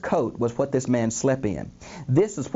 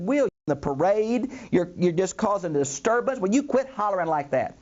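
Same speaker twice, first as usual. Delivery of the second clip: mock scolding in a raised pitch; stern rebuke; 5 semitones higher than usual. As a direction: tell off a noisy man, lightly acted. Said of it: "Luke even adds sternly".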